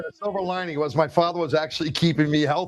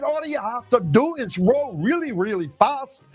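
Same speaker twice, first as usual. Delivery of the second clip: a mock Scottish father's brogue, a touch higher; half-hearted Scottish dad telling his son to row; lightly voiced Scottish father; 7 semitones higher than usual. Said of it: "he had that Scottish brogue on him".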